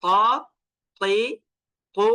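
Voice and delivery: ক, তি, কু as open heavy-t syllables, no echo; no jolt. Shown as a demonstration. Teacher contrasts voweled Ta, ক, তি, কু left without a jolt. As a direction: say ক, তি, কু as to, ti, tu without bouncing. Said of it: "আমি ক বলেছি, ঝাঁকুনি হয় নাই".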